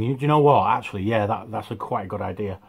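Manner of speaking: talking between sips of tea; drinking tea. Real, not acted. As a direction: mouth wet from a sip. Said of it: "Sorry, I'm drinking a cup of tea".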